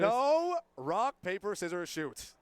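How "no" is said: loud protest. Real, not acted. Protesting the RPS call.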